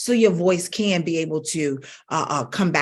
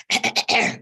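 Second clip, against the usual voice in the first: throat clearing; 4 semitones higher than usual. Shown as a demonstration. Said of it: "that was abusive to the voice".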